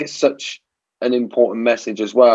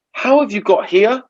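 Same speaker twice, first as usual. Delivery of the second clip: baffled wife; 11 semitones higher, 3 dB louder than usual. Retold or imitated. Wife baffled by his worry.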